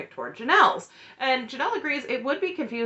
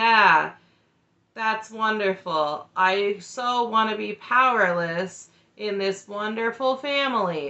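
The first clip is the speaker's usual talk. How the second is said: slow, heavy sarcastic drawl with mock enthusiasm. Retelling a reply to a question about the family: imitating a sarcastic reply. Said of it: "he so sarcastically is like".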